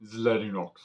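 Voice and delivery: rough attempt at a Russian accent; badly faked Russian accent. Shown as a demonstration. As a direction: try on a Russian accent for one word. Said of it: "Let me just get my Russian accent".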